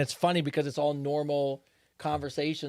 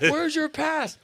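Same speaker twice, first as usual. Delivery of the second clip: high-pitched mock guard demand; challenging security guard; 11 semitones higher, slower than usual. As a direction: imitate a guard confronting an intruder. Retold guards confronting the intruder.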